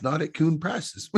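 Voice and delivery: chuckling through the punchline of a tall tale; laughing punchline. Real, not acted. Podcast host to his guest, laughing through the punchline. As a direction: let the laugh break in as you land the joke.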